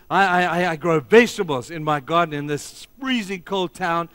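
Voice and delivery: attempted Russian accent. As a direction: imitate a Russian pastor, accent not quite there. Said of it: "in his Russian accent, which I don't know how to do".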